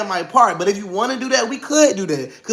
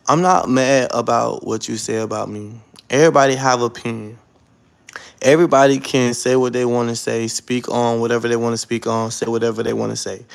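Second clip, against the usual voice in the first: calm and measured; 6 semitones lower than usual. Real, not acted. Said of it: "in the most calmest way ever".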